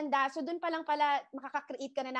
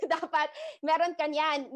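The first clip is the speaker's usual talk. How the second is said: laugh, then repeat it a bit louder; 2 semitones higher, 4 dB louder than usual. Real, not acted. Coach telling trainees to be on every platform, laughing. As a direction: laugh it off as you drive it home.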